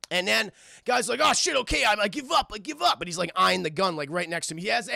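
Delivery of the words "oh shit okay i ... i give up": higher-pitched mock pleading; panicked surrender. Voices criminal surrendering.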